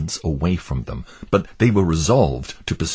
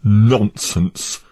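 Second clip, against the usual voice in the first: a touch louder, dismissive cry; cried out; 4 semitones higher, 5 dB louder than usual. Acted. Obstinate crying out at Christian's book, mock scorn. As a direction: brush the idea off sharply. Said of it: "cried Obstinate".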